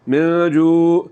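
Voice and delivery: من جوع ending in a plain hamza, no ain; wrong hamza. Shown as a demonstration. Teacher demonstrates the hamza mistake in من جوع. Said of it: "یہ حمزہ پڑھا جا رہا ہے جو کہ غلط ہے".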